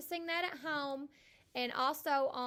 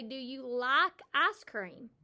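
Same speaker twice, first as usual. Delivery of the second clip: slow model question; 6 dB louder, slower than usual. Shown as a demonstration. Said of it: "if we're asking somebody a question".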